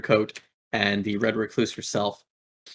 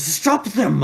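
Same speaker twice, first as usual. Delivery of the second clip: higher, louder barked order; Red Recluse commanding her goons, higher and louder; commanding villain; 9 semitones higher, 4 dB louder than usual. Acted. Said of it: "and she says".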